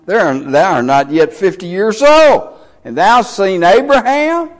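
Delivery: retold disbelief, rising high into a question; mock incredulity. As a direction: quote them as if you can't believe it, pitch climbing at the end. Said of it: "Their response was to freak out".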